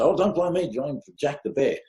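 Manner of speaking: mock blame-dodging. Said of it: "the person that you blame".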